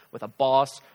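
usual speaking voice

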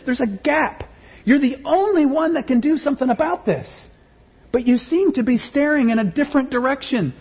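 high, pleading cry to God; voicing a lament. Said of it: "It's their laments".

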